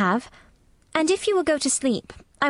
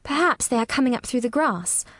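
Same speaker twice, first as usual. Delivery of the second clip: gently slow, low storytelling voice; 4 semitones higher than usual. A narrator's reading. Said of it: "very slowly and in a very low voice".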